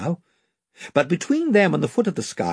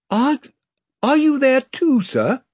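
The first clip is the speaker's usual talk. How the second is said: higher, startled Edmund; a boy caught off guard; surprised boy; 11 semitones higher, 4 dB louder than usual. A narrator's reading. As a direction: Edmund asks about a way home, surprised. Edmund voiced.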